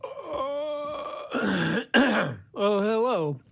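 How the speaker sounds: a hint of a late-night host greeting; Johnny Carson voice. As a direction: clear the throat, then a showman's hello. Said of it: "my Johnny Carson impression".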